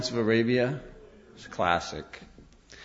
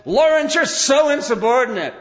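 higher, louder mock yell of an officer; 11 semitones higher, 6 dB louder than usual. Officer yells at Lawrence in a mock yell. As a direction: bark it like an upset commanding officer. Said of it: "he's yelling at him".

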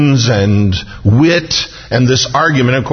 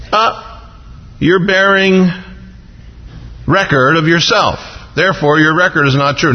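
higher, mock-accusing Pharisee challenge; nitpicking Pharisees; 4 semitones higher than usual. Preacher voicing Pharisees nitpicking at Jesus, higher and accusing. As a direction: needle him with a picky objection.

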